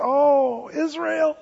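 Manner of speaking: a yearning lament over Israel, like a mother hen; lightly voiced Jesus longing to gather his people; tender Jesus. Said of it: "You hear it in Jesus' voice".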